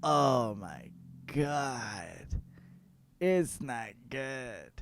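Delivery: slow, hushed and appalled; shocked whisper. Retold or imitated. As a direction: whisper it in disbelief. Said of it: "Basil's like".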